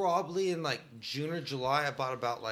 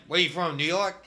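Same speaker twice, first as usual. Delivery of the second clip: put-on New York accent; 5 dB louder than usual. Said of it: "I said it in New York accent".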